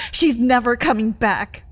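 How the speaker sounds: harsh declaration. Acted. Cruel truth to partner.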